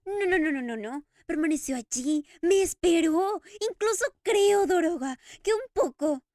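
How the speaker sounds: loud, tearful outburst, voice breaking; sobbing Eric. Acted. Eric weeping to the Daroga over the kiss, loud and tearful. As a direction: pour it out between sobs. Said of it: "Eric sollozaba".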